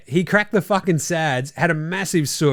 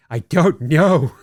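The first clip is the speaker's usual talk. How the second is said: mock clueless official; 5 dB louder, much slower than usual. Mock official shrugging reply.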